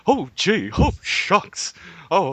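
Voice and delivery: timid whimpering lion; cowardly lion voice. Acted. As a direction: quaver like a scared cowardly lion. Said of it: "I can be the cowardly lion".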